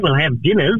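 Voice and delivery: bad Australian accent drifting into New Zealand; terrible Australian accent. Shown as a demonstration. Singer showing a radio host his botched Australian accent. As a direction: do a clumsy Australian accent, swooping in pitch. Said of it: "That's how I do the accent".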